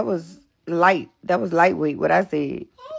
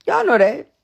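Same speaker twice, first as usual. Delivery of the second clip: higher and louder, pointed; emphatic repeat; 5 semitones higher, 4 dB louder than usual. Real, not acted. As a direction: hit it harder the second time. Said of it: "And y'all know that".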